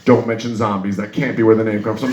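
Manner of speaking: low-pitched thinking to himself; inner monologue. Acted. Comic talking to himself about Zambia, as a low inner monologue. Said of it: "Inner monologue".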